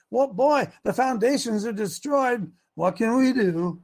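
helpless, slowly drawn-out question; resigned reading. Shown as a demonstration. Coach showing one way to read the verse, resigned. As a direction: say it as a resigned shrug. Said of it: "it's a matter of where you put the emphasis".

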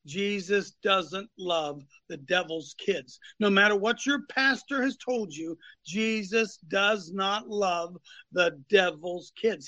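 slow, weighty stress on doesn't; slow emphatic preaching. Acted. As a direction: lean hard on doesn't and does not. Emphatic doctrinal statement.

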